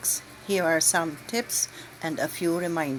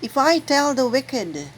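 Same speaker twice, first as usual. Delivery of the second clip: solemn proclamation. Acted. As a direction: proclaim it to the assembly with gravity. Proclaims the first reading.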